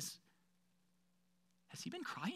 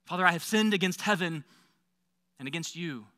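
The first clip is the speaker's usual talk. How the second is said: humble apology. Retold or imitated. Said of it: "my "I'm sorry" speech".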